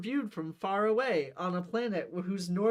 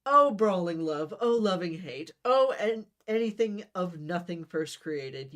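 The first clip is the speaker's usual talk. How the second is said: lofty, louder Shakespearean recital; grand declaiming; 3 dB louder than usual. Acted. Romeo declaiming on love to his cousin, grand recital. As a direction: Romeo orating his lovesick lines to Benvolio. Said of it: "You clear your throat and hold up one hand".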